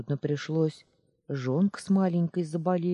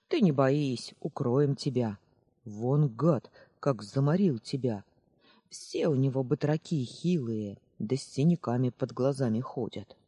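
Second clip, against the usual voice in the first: a hint of a gruff old villager, spitting the words; lightly voiced old man, bitter about the master; grumpy old man. Old man Dat comforting the runaway, grumbling at the master. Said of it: "Зло сплюнул Дат".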